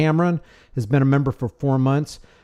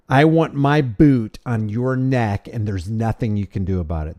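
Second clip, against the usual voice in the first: domineering mock threat. Voices what the flag says.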